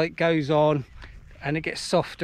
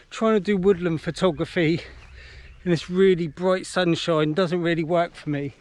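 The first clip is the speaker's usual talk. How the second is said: breathless after climbing a big hill; panting out of breath. Real, not acted. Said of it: "Oh, sorry, I'm out of breath".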